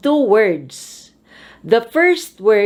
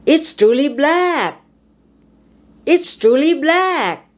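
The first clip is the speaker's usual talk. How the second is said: "black" high, then falling; stress on the adjective; 6 semitones higher than usual. Shown as a demonstration. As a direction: climb to a peak on "black". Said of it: "put your voice high on the adjective".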